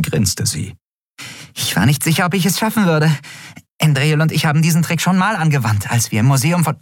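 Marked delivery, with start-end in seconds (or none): 1.5-6.8 high chattering voice; excited little creature. A narrator's reading. Small Nelen boasting of her trick, excited chatter. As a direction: babble on high and proud.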